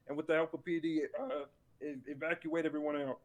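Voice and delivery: hoarse, fading voice; losing voice. Real, not acted. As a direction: voice giving out, hoarse. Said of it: "losing my voice a bit".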